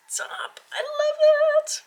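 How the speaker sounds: high, slow whispered gush; awed whisper. Real, not acted. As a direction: melt over the card. Whispered delight.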